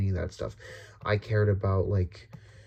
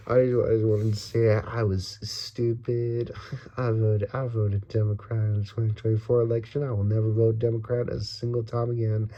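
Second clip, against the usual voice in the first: put-on full Southern accent. Voter swearing off Democrats, in a full Southern accent. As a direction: lean all the way into a Southern accent. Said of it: "I don't know why I went full Southern".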